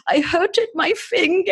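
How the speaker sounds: put-on high, crying toddler voice; whiny little kid. Podcaster imitating a hurt toddler, high teary child voice. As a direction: whimper it like a small child showing a boo-boo.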